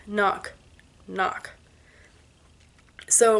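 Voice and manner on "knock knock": soft, fading eerie knock knock; ghost-story knocking, faded; hushed knocks. Shown as a demonstration. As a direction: let the knocks die away spookily.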